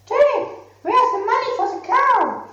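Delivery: high, demanding mother; questioning mother. Acted. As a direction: ask for the money sharply. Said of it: "His mother asked".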